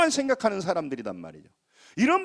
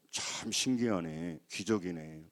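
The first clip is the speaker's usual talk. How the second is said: low, soft, slow musing; understated amazement, drawn out and hushed; marvelling doctor; 13 semitones lower, 10 dB quieter, slower than usual. Retold or imitated. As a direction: imitate a doctor quietly puzzling over a wonder. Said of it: "딱 보더니 그러는 거예요".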